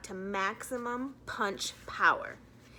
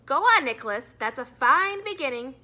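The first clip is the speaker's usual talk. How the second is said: encouraging teacher; 3 semitones higher, 10 dB louder than usual. A narrator's reading.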